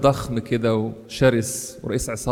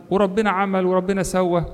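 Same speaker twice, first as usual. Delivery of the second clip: lightly acted grievance, pitched higher; mock complaining; 6 semitones higher than usual. Preacher mimics Job grumbling about what God did, mildly complaining. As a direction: imitate an upset man's complaint, voice lifted. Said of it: "يشتكي ويزعل".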